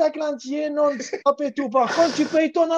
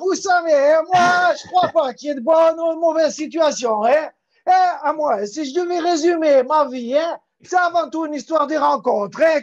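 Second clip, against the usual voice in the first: slightly louder, streetwise voice; 4 dB louder than usual. Acted. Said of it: "c'est sa vraie voix".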